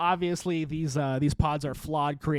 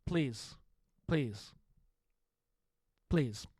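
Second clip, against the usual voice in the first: soft, dropping mock plea, each please quieter; mock pleading; 5 semitones lower, 7 dB quieter, much slower than usual. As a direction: beg half-jokingly, fading away. Begging the podcast to last.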